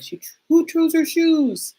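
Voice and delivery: high, slow mock Jesse; squeaky slow incredulous quote; imitating Jesse. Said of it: "Jesse saying".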